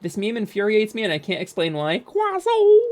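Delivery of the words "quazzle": high, loud happy shout of a name; excited call. Real, not acted. Streamer greeting a chatter, high excited callout. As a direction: greet them with a sudden burst of joy.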